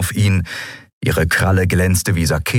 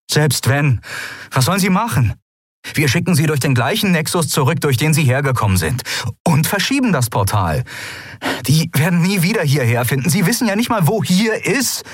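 higher, fast, anxious pleading; Sephiron arguing; 10 semitones higher than usual. Acted. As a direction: talk your way out quickly. Narrator voices Sephiron. (Sephiron redet sich hastig heraus)

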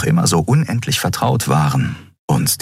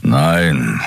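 growled; 3 semitones lower than usual. A narrator's reading. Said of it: "knurrte er".

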